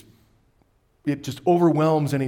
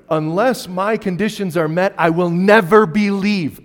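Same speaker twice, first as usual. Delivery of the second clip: adamant ultimatum; 7 semitones higher, 12 dB louder than usual. Acted. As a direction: plant your feet, refuse to budge. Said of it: "he couldn't be more adamant".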